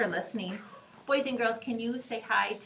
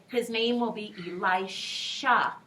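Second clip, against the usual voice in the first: louder, deliberate prompt; clear teacher voice; 5 dB louder than usual. Shown as a demonstration. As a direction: get the kids to repeat. Teacher leads repetition.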